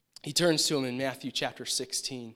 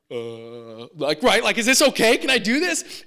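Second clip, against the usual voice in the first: eager asking; 5 semitones higher, 10 dB louder than usual. Retold or imitated. Asking boss permission.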